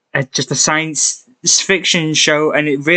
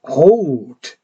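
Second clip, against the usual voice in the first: awed; 3 semitones higher, much slower than usual. Retold or imitated. Quoting the Doctor in awe.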